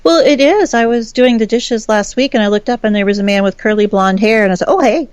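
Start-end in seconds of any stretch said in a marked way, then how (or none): 4.7-5.1 higher, breezy retold hello; offhand, pitched-up "hey"; casual mock greeting. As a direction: greet the ghost like a passing neighbour. Retelling casual greeting to ghost.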